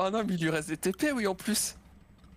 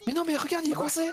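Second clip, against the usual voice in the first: dismayed; 11 semitones higher than usual. Real, not acted. Worm stuck.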